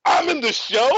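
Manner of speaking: high, astonished retold question; freaking out. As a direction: act out stunned disbelief. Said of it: "breathless, freaking out".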